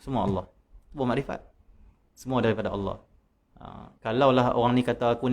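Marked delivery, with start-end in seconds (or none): 0.0-3.0 soft, smiling and unbothered; smiling calm reply. Retold or imitated. Wali answers his accuser with a soft smiling voice. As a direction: gently brush off the insult with a smile. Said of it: "Dia senyum saja".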